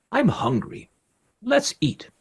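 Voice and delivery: high, squeaky little pigeon voice; wild pigeon. A narrator's reading. Pigeon telling the flock it's hungry, high bird voice. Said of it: "one of the wild pigeons said".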